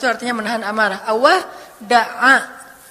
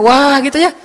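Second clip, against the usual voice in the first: big wow; 2 semitones higher, 9 dB louder than usual. Shown as a demonstration. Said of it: "Kalau saya mah".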